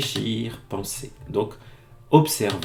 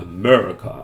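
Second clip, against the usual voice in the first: America with big, heavy stress on "me"; 4 semitones lower, 7 dB louder than usual. Teaching the American accent in French: stress on second syllable of America. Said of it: "un bon gros accent américain, America. Hein, le mais, il est beaucoup plus fort".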